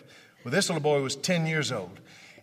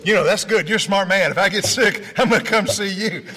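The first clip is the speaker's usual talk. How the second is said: teasing; 3 semitones higher, 6 dB louder than usual. Retold or imitated. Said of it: "I said".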